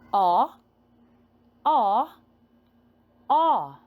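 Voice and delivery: "O" sounded as a loud short vowel, not the letter name; phonics sound. Shown as a demonstration.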